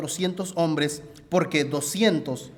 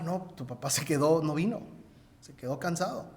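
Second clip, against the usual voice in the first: gentle soft news; 9 dB quieter than usual. Retold or imitated. Telling child father stayed.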